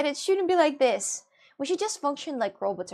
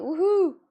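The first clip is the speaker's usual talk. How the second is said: raised woohoo whoop; attempted yawn woohoo; 7 semitones higher, 7 dB louder than usual. Shown as a demonstration. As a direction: demonstrate a drawn-out woohoo. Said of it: "I will try to do".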